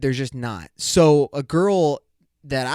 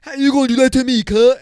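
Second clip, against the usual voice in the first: much higher, louder, fast mock outrage; mock outraged whine; 8 semitones higher, 8 dB louder, faster than usual. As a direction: squeal it like an offended date, fast. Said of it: "the girls that talk like this".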